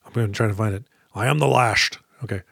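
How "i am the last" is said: lightly voiced Sean Connery; Sean Connery impression. Shown as a demonstration. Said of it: "a little Sean Connery voice".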